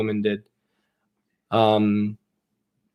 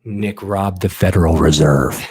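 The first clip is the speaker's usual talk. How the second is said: mock accusation; 5 semitones lower, 4 dB louder, slower than usual. I'm just kidding.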